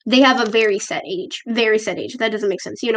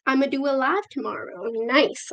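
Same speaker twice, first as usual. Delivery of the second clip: soft, slightly raised reading voice; odd reading voice; 3 semitones higher, 6 dB quieter than usual. Real, not acted. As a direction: read the comment out in a softly put-on voice. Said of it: "I don't know why I said it in that voice".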